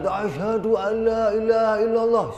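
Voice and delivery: high, loud mock recitation; imitated creed reciter. Mimicking someone who recites the syahadat, high loud declaration. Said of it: "Ada orang kok bersyahadat".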